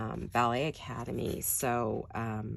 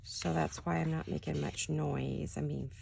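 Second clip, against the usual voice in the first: raspy, just-woke-up voice; raspy morning voice; 4 dB quieter than usual. Real, not acted. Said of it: "excuse my raspy early morning voice".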